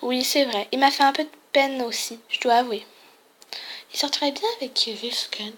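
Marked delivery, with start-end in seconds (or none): 3.9-5.5 hushed unvoiced gossip; whispered aside. Real, not acted. Player gossiping to the viewers about Ken, whispered.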